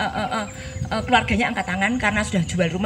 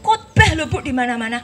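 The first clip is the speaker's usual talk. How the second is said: high, loud cry breaking into tears; wife crying out about her husband; distressed cry; 4 semitones higher, 5 dB louder than usual. Retold or imitated. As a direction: wail it out in grief.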